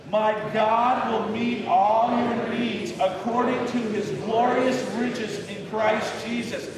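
rally the congregation through the verse; with some enthusiasm. Shown as a demonstration. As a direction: read aloud slowly with a lift of enthusiasm. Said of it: "read it out with some enthusiasm".

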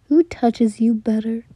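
a threatening hiss of jealousy; menacing whisper. Acted. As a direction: breathe it close and possessive. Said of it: "he asked".

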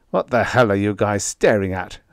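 growling. Acted. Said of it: "I growled".

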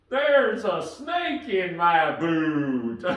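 slow drawling cowboy toy line; Woody cowboy voice. Acted. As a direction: play the talking cowboy doll. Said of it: "then I'll go".

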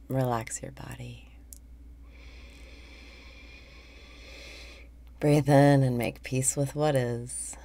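calm meditation leader, phrases spaced out; guided meditation. Real, not acted. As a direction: guide listeners breath by breath, unhurried. Leads a guided breathing meditation.

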